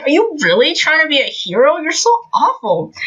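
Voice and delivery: high-pitched mock indignation; scandalised, lightly acted disbelief; appalled reproach. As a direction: push the pitch up in dismay. Acting out Ida's appalled reproach.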